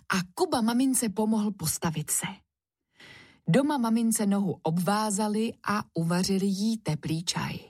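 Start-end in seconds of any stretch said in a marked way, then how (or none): none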